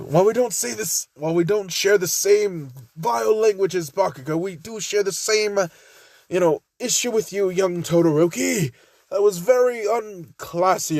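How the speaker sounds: lightly put-on British accent; prim, proper British scolding; a hint of a British accent. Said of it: "I made him fucking British".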